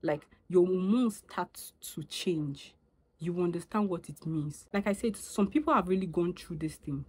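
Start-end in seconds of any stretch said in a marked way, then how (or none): 0.0-2.7 slowed down to spell it out; slow, deliberate rephrase; slow rewording. Shown as a demonstration. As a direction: say it again slowly so they get it. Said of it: "Let me use the word fluctuate like nepa".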